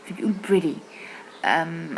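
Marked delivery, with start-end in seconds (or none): 0.5-0.8 pretty with the T like a D; flapped T. Shown as a demonstration. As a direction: say pretty as priddy. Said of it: "زي الدي كده". (pretty بالدي زي الأمريكان)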